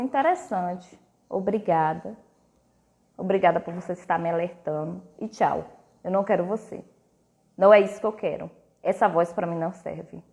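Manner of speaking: calm dismissal. Retold or imitated. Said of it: "falo assim".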